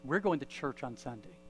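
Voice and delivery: "We're going to church on Sunday" as a settled statement, no question in it; matter-of-fact announcement. Retold or imitated. Wife to husband after the funeral, "We're going to church on Sunday" stated as decided. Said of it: "she didn't say it as a question".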